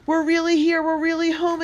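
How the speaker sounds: very high, loud joyful exclaiming; girl exclaiming with joy at being home. Acted. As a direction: burst out with happy disbelief. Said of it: "exclaimed Katie".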